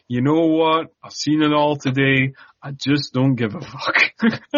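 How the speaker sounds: past caring, slowing on the last line; nonchalant. Acted. Co-host voices Sarah sitting among the rats, nonchalant. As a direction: shrug it off, acting someone who has given up. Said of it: "Sarah's nonchalance in this scene is hilarious".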